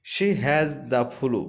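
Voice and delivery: words stretched out slowly; slow dictation of a sore throat; very slow reading. Shown as a demonstration. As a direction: drag it out word by word. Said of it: "teacher reads sentence slowly".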